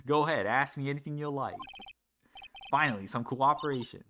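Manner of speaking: easygoing, lightly Southern; casual Southern country woman; Lotta's southern accent. Acted. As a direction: speak with a light Southern twang. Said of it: "She has a southern accent".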